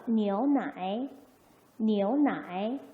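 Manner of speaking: slow, drawn-out 니오나이 with rising end; pronunciation demo. Shown as a demonstration. Teacher models milk in Chinese, slow pronunciation demo. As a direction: say 니오나이 slowly, syllable by syllable. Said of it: "해볼게요".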